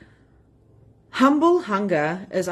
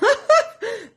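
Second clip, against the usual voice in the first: a sudden high, louder giggle; high laugh; 5 dB louder than usual. Real, not acted. Coach pitching a deal to viewers, a high laugh.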